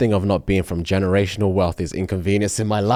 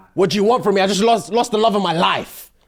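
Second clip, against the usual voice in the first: mock, very high-pitched yelled voice; 12 semitones higher than usual. Retelling how a man shouted back at his wife, retelling a shout. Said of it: "Ghost shouted back at his wife".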